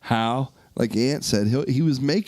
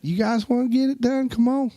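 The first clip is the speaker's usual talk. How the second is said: hearty southern host; 11 semitones higher than usual. Pretend. Uncle Jeff inviting the crew to Alabama, high and hearty. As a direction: wave them down south with gusto.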